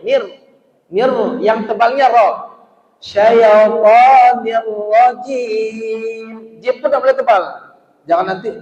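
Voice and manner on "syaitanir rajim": "Syaitanir" said very slowly and loudly, with a heavy nir; wrong thick nir. Shown as a demonstration. Teacher shows the thick nir, the wrong way. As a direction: thicken the nir too much on purpose. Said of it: "Itu salah itu".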